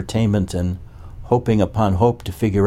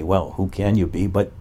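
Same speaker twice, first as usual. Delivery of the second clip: mocking the Neo-Advaitins; 3 semitones higher than usual. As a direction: parrot their easy answer mockingly. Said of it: "the Neo-Advaitins say".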